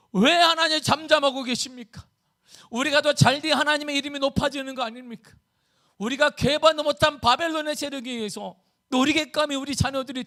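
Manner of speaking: high, loud protesting plea; impassioned cry to God. Acted. Preacher as Habakkuk demanding why God stays idle, impassioned cry. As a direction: cry out in protest as the aggrieved prophet. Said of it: "이렇게 외쳤어요".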